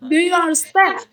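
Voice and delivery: demonstrated question melody on "understand"; rising intonation. Shown as a demonstration. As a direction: DO YOU UNDERSTAND with the pitch lifted. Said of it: "rising intonation".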